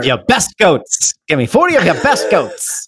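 put-on old-timey twenties talk; a hint of a 1920s radio voice. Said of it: "you're using a nineteen twenties voice".

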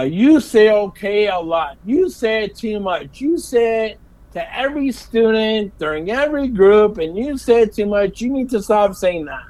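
mildly nag, punching the repeated complaints; retold berating. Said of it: "she keeps going on berating me".

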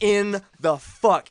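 slow, loud and high, stretching out the disbelief; drawn-out shocked shout. Retold or imitated. Finishing the stunned shout to his friends, slow and loud. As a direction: let the shock hang on every word.

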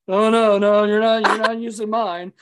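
loud, high acted protest; mock alarmed refusal. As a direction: play a jock hurriedly refusing. Acted jock refusing in panic.

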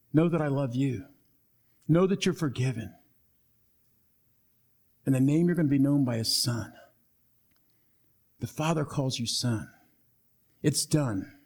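low, gentle words of forgiveness; tender reassurance. Acted. Jesus tells Peter he is forgiven, tender and low.

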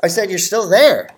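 muffled under a towel; talking with a towel over your head. Real, not acted. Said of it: "I just put a towel over my head and over my computer".

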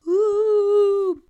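high, loud witch "Ooh"; a hammed-up witch "Ooh". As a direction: swoop in like a cackling witch. Playing witch from movie.

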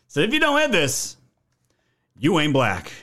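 lightly voiced Biden catchphrase; imitating Joe Biden. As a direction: parrot the president's line back with a jeer. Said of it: "this is Joe Biden".

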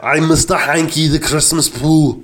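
mock Austrian accent, slowing at the end; lightly done Austrian strongman introducing a cartoon character; deliberate, put-on Austrian accent; Arnold Schwarzenegger. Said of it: "Do your Arnold Schwarzenegger".

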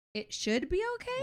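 disbelieving high question; incredulous. Retold or imitated. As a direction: echo it back in disbelief. Incredulous echo of employee.

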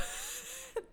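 high voiceless burst of laughter; short, breath-only high laugh. Real, not acted. Contestant reacting to going first, laughing.

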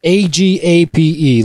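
spelled out slowly. Shown as a demonstration. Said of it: "look it up".

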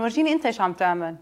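fast, challenging retort; snappy comeback. Pretend. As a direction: throw it back at the critic quickly. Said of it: "هيك رح أقول له".

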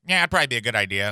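quick buzzy doctor impression; mumbling country doctor. Doctor agrees with patient about blood work, hurried mumbling impression. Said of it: "he's like".

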